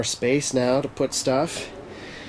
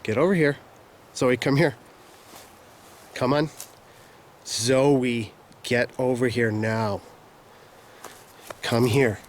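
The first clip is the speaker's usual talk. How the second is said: calling from far away. Real, not acted. Calling dog from afar.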